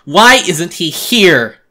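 high, slow, roaring demand; snarling monster shout. Acted. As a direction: roar it like a frenzied ghoul. Monster demands Tom, choking narrator.

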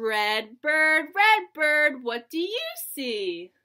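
singsong picture book reading; lilting read-aloud for little kids; reading to a toddler. Acted.

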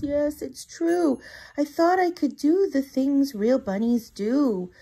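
a hint of a wail; lightly sobbing confession; mild wailing. Tiny admits to Marvin he is no bunny, a touch tearful. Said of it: "He wails".

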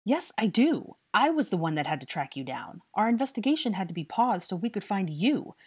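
loud, high-pitched tirade; angry scolding. A narrator's reading. Harry scolds the boy he tracked down, furious. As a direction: lay into him with mounting exasperation.

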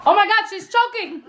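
laughing through the words, fast at first. Real, not acted. Host laughing as grandma chokes on the food. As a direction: talk while cracking up.

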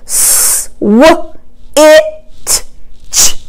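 S and ch breathed, each sound apart; chopped word. Shown as a demonstration. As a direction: chop into single sounds. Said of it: "here's a hard one".

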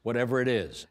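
high, rapid-fire brush-off; imitating Kate Hepburn. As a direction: rattle it off before anyone can answer. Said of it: "before you could answer it, she was off this way".

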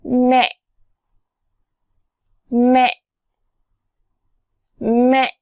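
매 said clearly with the lips; word demo. Shown as a demonstration. Teacher models 매 meaning mother, clear. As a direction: model 매 for repetition. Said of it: "여기 있는 단어 따라해보세요".

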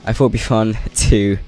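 too loud for the mic. Real, not acted. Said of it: "Sorry, my mic sensitivity is way up".

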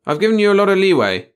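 high, loud desperate appeal. A narrator's reading. Chief appealing to his two employees, desperate. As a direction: plead your case, pitch pushed up. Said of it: "Then desperately".

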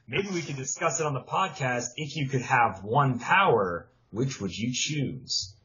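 read-out question, slowing at the end; measured read-aloud, dropping low to finish; reading a letter aloud. Real, not acted. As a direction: read the listener's question out deliberately.

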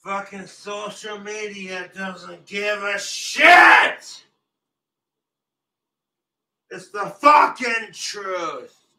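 angry rant. Real, not acted. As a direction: vent it loudly at the world.

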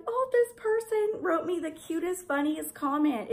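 high, gushing excitement; bubbling over about a funny comment; telling her husband, excited and high. Retold or imitated. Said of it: "And I'm like".

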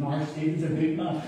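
lightly voiced protective grandmother; Granny Lily. Granny defending her grandson from teasing, mildly indignant. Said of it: "wee Lily would start".

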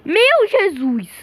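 slow, high shocked cry; drawn-out gasp. Real, not acted. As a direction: stretch it out in disbelief.

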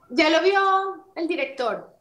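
imitating a Bogotá producer's accent. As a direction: lilt it slowly upward like a bogotana. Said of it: "pero así, ¿no?".

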